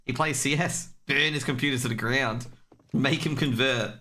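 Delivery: mock hyped Riot staff. Caster jokes Riot burns CS players' PCs, mock hyped voice. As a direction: egg the PC on to overheat. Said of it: "They're just like".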